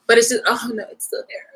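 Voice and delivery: blinking at a hair in the eye. Real, not acted. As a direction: talk while rubbing your eye. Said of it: "cat's hairs that got into my eye".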